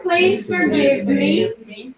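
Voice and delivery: slow it right down, like a mantra. Shown as a demonstration. Guiding the audience through forgiveness, very slowly. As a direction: draw every syllable out. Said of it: "Let's do it again".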